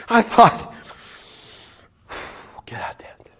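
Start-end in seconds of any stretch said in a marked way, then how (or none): 2.7-3.3 breathy whisper, no voice at all. Retold or imitated. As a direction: whisper it like a private echo. Recalling the Lord's words, whispered.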